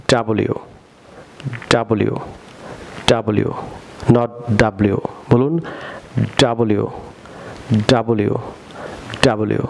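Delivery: ডাব্লিউ repeated slowly as "dabliu" for learners; teacher drilling ডাব্লিউ for students to repeat; model pronunciation. Shown as a demonstration. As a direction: say ডাব্লিউ clearly as "da-bli-u", pausing after each. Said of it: "আমার সাথে বলুন".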